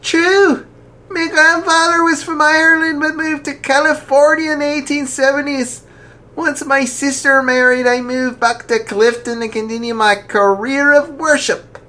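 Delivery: jolly archbishop. Acted. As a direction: ask gently but heartily. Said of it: "Archbishop Miller laughed".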